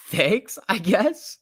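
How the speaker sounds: a lightly voiced sarcastic thanks; put-on voice. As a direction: squeak it out like someone else. Reading chat in a put-on voice.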